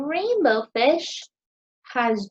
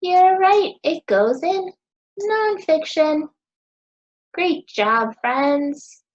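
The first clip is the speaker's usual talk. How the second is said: loud excited praise; 4 semitones higher, 5 dB louder than usual. Real, not acted. Teacher praising children's answer.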